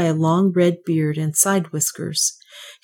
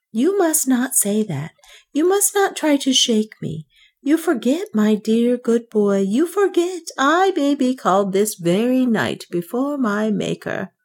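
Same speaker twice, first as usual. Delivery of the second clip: high, urgent pleading; excited, fearful plea; 6 semitones higher than usual. A narrator's reading. Banker fearfully pleads with Northmour about death, high and urgent. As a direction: beg him not to shake your faith. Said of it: "His excitement was pitiful to behold".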